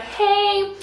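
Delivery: lightly imitated guy's text message; a hint of a chirpy organizer; organizer role. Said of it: "there's a guy that I've known".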